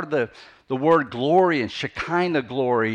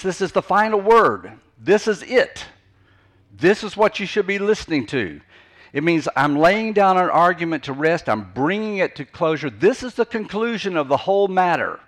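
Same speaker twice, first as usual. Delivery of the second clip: firm, higher-pitched declaration; emphatic final word; 4 semitones higher, 4 dB louder than usual. Shown as a demonstration. Preacher explaining what saying means, emphatic and conclusive. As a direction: lay it down as the last word. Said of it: "Not only does it mean just to say".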